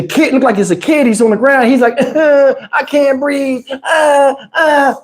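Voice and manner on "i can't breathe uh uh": imitating a sobbing kid, slowed and gasping; hammed-up crying kid; mock crying. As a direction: fake blubbering, stretched out. Teen crying on the curb.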